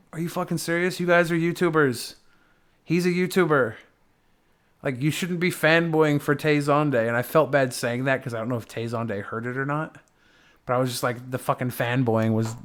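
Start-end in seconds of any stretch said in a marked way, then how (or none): 0.1-7.1 incredulous rant. Retold or imitated. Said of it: "I'm like".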